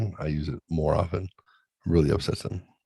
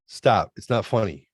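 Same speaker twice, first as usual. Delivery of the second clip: exasperated son. Retold or imitated. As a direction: play the irritated teen. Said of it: "the tone changes".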